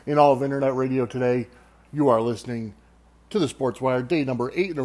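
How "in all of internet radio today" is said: booming showman intro; ringmaster. Pretend. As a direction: announce it like a circus ringmaster. Podcast intro announcer opening.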